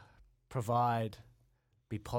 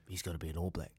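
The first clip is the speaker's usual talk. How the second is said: imitating a pushy parent; 6 semitones lower, 6 dB quieter, faster than usual. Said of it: "the mum and dad come up to me".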